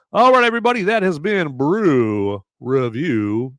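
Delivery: excited sign-off. Real, not acted. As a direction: wrap up the show with a flourish. Host signs off the segment.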